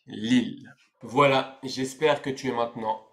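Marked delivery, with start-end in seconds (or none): 0.1-0.7 LILLE said alone as "lil"; pronunciation demo. Shown as a demonstration. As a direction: LILLE with a sounded final l. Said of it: "On dit donc".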